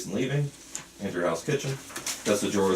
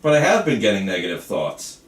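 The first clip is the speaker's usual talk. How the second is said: insistent protest; 7 dB louder than usual. Acted. Patient protests to his doctor.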